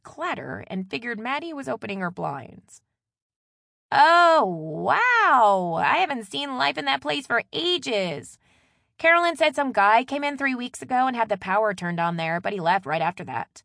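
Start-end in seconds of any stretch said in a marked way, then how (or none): 3.9-13.6 loud, high burst of amazement, easing off; wowed sister on the phone; excited gossiping sister. Acted. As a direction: share fresh gossip with gusto. Maddie reacts with gossip.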